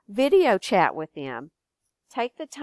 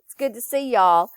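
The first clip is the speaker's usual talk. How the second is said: Texan howdy, first whispered then louder; Texan howdy greeting; 2 semitones higher, 6 dB louder than usual. Shown as a demonstration. Teaching a Texas greeting, friendly Texan accent. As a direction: greet the neighbors Texan style. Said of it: "Another way that we greet people".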